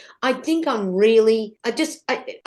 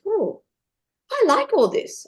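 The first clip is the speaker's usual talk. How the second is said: excited gushing; 10 semitones higher than usual. Retold or imitated. Excited inner voice about makeup.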